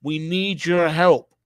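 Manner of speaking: mock pleading citizen. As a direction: beg the government like a helpless victim. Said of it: "You're gonna say".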